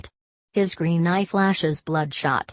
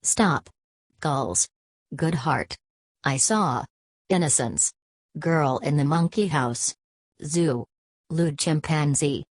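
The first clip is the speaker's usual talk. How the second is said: desperate. Acted. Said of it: "Bloom, desperately".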